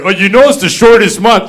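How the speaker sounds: hint of a condescending white guy. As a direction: put on a smug white-guy voice. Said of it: "thanks, fucking white guy".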